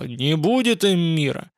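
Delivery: plain reading voice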